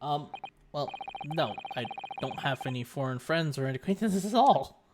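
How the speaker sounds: quiet Naruhodo. Acted. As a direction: talk half to yourself.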